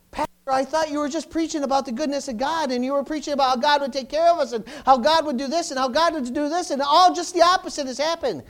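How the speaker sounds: imitated complaining congregant. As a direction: whine it like a let-down church member. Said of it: "you will say to yourself".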